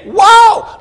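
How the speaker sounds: high, loud whoa of astonishment; amazed. Acted. Townsfolk staring at the pigs in the lake, amazed. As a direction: gasp it out in awe.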